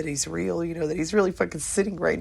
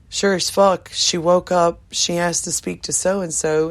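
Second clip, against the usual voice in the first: louder excited telling; emphatic; 7 dB louder than usual. Real, not acted. Telling friends the miracle, louder and excited. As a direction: punch out the miracle.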